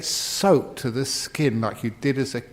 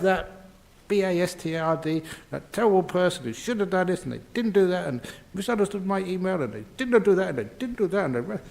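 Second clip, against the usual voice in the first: higher-pitched, mildly hammed-up tirade; mock angry rant; 5 semitones higher than usual. Monk mimicking someone angry over a misunderstood email, mock ranting. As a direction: imitate someone reeling off grievances. Acting out an angry person's complaints.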